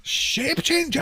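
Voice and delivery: high-pitched, drawn-out panicked shout; shouting in terror at the end of his rope; terrified shouting. Acted. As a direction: freak out and shout the accusation. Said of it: "starts shouting".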